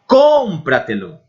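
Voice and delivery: Cómpratelo said a little slowly, stress on CÓM; Spanish pronunciation. Shown as a demonstration. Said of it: "Pense nessas palavras". (Cómpratelo em espanhol, tônica no CÓM)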